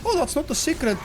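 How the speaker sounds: usual speaking voice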